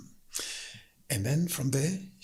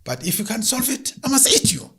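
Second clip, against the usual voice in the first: menacing lion; 11 semitones higher, 4 dB louder than usual. Acted. Lion threatens the woman.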